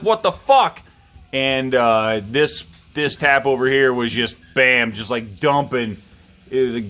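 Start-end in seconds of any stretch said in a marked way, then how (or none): 0.0-0.8 high, loud startled outburst; shocked yell. Retold or imitated. Buddy sees the spilled beer, startled loud yell. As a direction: blurt it out like you just saw beer flooding the floor. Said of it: "he's like".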